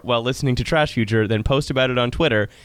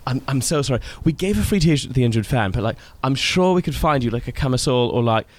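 relaxed, apologetic British accent; British accent, played as an obliging apology; Hussein; faster than usual. Shown as a demonstration. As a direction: ease into a polite mock British accent. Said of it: "Now you're just doing Hussein from your podcast".

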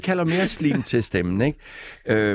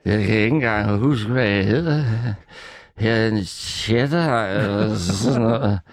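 fuld ost; slower than usual. Acted. Lægger stemme til en fuld ost.

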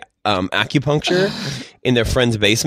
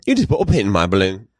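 put-on lower, half-hearted British accent; jokey, failed British accent; bad British accent; 5 semitones lower than usual. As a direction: attempt a British accent and miss. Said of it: "I can't do a British accent right now".

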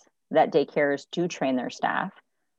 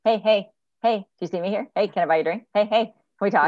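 put-on drunk guy at bar; 4 semitones higher, 5 dB louder, faster than usual. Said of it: "I kinda call them the drunk guy at the bar".

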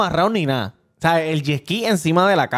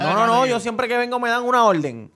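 imitated drunk customer, pitched higher; mock an impatient tipsy regular, voice raised in pitch; lightly acted higher-voiced drunk; 6 semitones higher than usual. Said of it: "está bien encasquillado y borracho".

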